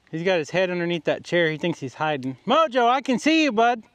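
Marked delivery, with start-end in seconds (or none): 2.5-3.8 calling out. Real, not acted. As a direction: call him from across the yard. Calling the hiding dog.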